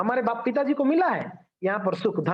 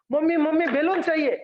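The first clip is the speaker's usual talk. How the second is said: lightly voiced child pleading, higher pitch; begging child; 5 semitones higher than usual. Child asks mother for a balloon, lightly acted begging. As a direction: mildly imitate a child nagging for something.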